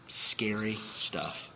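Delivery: slow, hushed whisper; a slow whispered warning to the congregation; whispered aside. Real, not acted. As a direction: breathe it out as an eerie warning. Sober aside after warning.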